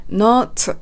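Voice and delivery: "not" with a hard ts-like final T; strong T in not. Shown as a demonstration. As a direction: let the T of "not" burst. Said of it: "Tの発音が強くなっているので". (「not」のTを強めに発音)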